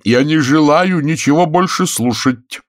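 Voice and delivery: slow, high, firm refusal; categorical. A narrator's reading. Wife cutting off her husband, categorical. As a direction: shut him down flatly. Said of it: "категорически заявила миссис Вадингтон".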